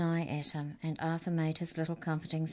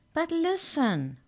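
high, slow, pleading "But listen"; desperate prisoner crying out high and slow; 12 semitones higher, 3 dB louder, slower than usual. A narrator's reading. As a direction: cry out, begging to be heard. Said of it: "Mallory cried".

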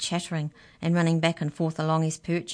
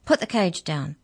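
ordering; 4 dB louder than usual. Acted. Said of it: "she ordered".

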